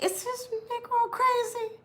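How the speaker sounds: very high, loud incredulous squeal; high, loud shocked squeal; shocked disbelief. Retold or imitated. Her stunned reaction to boyfriend.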